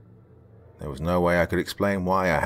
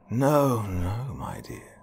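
mocking; 4 semitones higher, much slower than usual. Sinister artist mocking the cursed girl. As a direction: taunt her gently, dropping away. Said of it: "he began mockingly".

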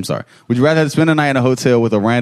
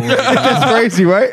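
slow and drawn out through a laugh, high; 9 semitones higher, much slower than usual. Real, not acted. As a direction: stretch it out while laughing hard. Laughing at a wild comment.

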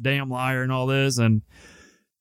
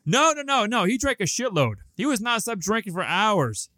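much higher mock whiny girl voice; imitating the girlfriend who tattles to the cop, high and mocking; 9 semitones higher than usual. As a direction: mimic the snitch, high and whiny. Mocking girlfriend ratting him out.

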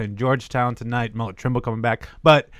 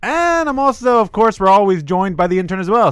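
grand entrance announcement; 6 semitones higher than usual. Acted. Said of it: "grand host introductions".

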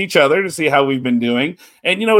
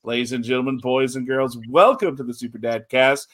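ringmaster. Acted. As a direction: announce it like a circus ringmaster. Podcast intro announcement.

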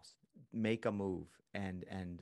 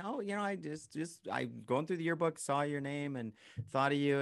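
friendly phone chat; 5 semitones higher than usual. Pretend. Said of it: "call up your friend from high school and say".

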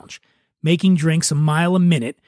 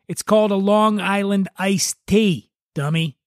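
higher, mildly scornful correction; condescending guest; 4 semitones higher than usual. Acted. Angry guest corrects the bartender, condescending.

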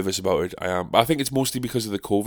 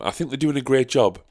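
higher, mock-enthusiastic praise; sarcastic; 5 semitones higher than usual. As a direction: gush with fake approval. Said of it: "sarcasm aside".

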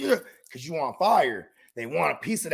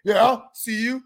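mock white dude; 5 semitones higher, 7 dB louder, slower than usual. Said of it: "The white dudes come up".

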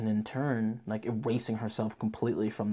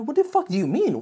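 mock outrage; 12 semitones higher, 6 dB louder than usual. Own reaction to the ending.

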